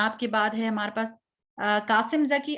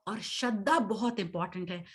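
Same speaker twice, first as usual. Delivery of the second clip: whisper; 4 semitones lower, 5 dB quieter than usual. Real, not acted. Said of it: "unvoiced aside".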